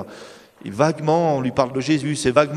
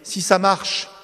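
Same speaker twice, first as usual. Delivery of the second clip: high, loud protest; imitating a nervous young man; defensive young man; 7 semitones higher, 4 dB louder, slower than usual. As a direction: blurt out a denial. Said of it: "Il me dit".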